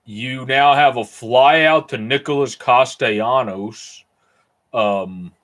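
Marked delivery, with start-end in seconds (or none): 0.1-4.0 slow put-on odd accent on "You now have a fly out to Nicholas Castellanos"; weird accent. Streamer calling a fly out in play-by-play, in a weird put-on accent. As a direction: drawl the call in a strange made-up accent. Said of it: "I just said that with a weird accent".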